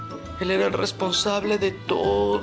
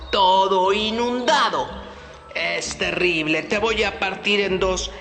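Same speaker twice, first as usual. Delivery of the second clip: angry bear. Acted. Bear accuses the fox.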